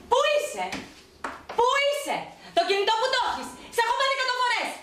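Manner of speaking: high-pitched, agitated scolding; angry demand. Acted. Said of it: "μη φωνάζεις, ηρέμησε". (θυμωμένη, ψηλόφωνη απαίτηση)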